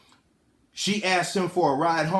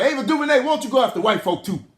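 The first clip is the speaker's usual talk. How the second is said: raised, higher voice heckling from the audience; calling out; 5 semitones higher, 3 dB louder, faster than usual. Pretend. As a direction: stand up and call her out. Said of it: "I'ma stand up and be like".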